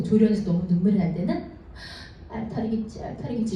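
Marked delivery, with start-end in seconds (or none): 2.3-3.5 soft mantra. Shown as a demonstration. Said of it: "이렇게 생각하세요".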